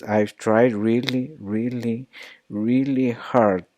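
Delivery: "really hard" lento y enfatizado; stressed really. Shown as a demonstration. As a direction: alarga cada "really", con labios redondeados. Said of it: "Round your lips".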